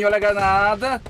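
sudden loud warning call; grenade warning yell. Real, not acted. Warns of incoming grenade.

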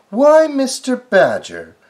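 high, loud, slow call. Acted. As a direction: call across the street, high. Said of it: "called Missus Rabbit".

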